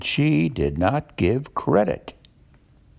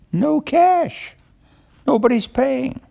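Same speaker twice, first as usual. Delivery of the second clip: mock dismay; 13 semitones higher, slower than usual. A narrator's reading. Narrator exclaims about no money.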